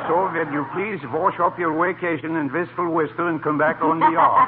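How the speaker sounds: stagey Irish boss voice, begorra; hammed-up Irish dialect on the phone; Irish accent. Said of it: "I changed my voice with Irish dialect".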